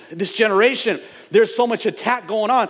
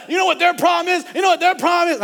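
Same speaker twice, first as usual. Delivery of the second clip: higher, louder mock finger-pointing; mock gossip; 12 semitones higher, 3 dB louder, faster than usual. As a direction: play the complainer. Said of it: "it's easy to be like".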